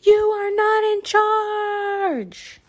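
high, loud angry yell. Acted. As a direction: yell it in protest. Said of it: "they yelled".

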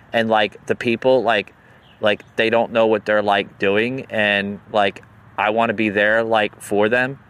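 lightly voiced millennial, every phrase padded with like; a hint of a rambling millennial; mock millennial. Podcaster lightly mocking a young congresswoman's speech. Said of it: "Everything is with the word like".

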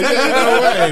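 high, loud, laughing; laughing mock reply. Mocking himself explaining fault lines, laughing high. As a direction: laugh it out in disbelief.

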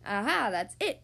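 mild eureka, punching the last word; excited cry. Acted. Wizard hitting on a solution, crying out. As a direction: exclaim with a sudden idea. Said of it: "cried the wizard".

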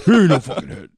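high, hammed-up kid voice; mock kid voice. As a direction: mimic a bratty kid. Repeating the quote.

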